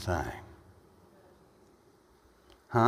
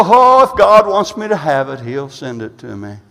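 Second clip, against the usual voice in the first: mock complacency; 7 dB louder than usual. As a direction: act out someone passively waiting on God. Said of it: "It'll make you just go".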